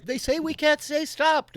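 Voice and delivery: put-on high relaying voice with an accent; Yana's voice. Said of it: "Yana's like".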